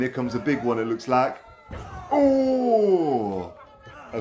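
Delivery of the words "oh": excited shout. Real, not acted. Big scoop slam coming.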